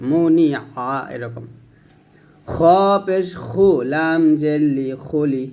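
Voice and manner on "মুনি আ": আ squeezed from the middle of the throat after মুনি; throaty ain. Shown as a demonstration. Teacher shows students how to press the throat on আইন. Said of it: "এই আইনটা গলার মাঝে চাপ দিয়ে বলতে হবে".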